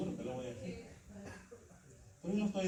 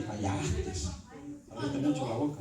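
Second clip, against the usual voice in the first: Holy Spirit rebuking. Retold or imitated. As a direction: gently correct the believer from within. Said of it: "le dice".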